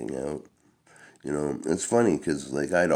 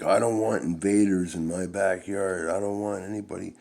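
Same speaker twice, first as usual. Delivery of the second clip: higher, gruff stepfather voice; stepfather's reply; 6 semitones higher than usual. Retold or imitated. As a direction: defend his backyard territory. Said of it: "And he was like".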